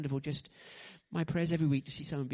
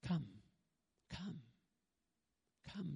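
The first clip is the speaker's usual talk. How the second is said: gentle call; 11 dB quieter than usual. Retold or imitated. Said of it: "He says".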